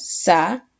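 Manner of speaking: "Sa, vi, a" split by clear pauses; syllable by syllable. Shown as a demonstration. Teacher separating a word for the class, syllable by syllable. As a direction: say "Sa... vi... a" one syllable at a time. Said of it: "Paramos en sílabas".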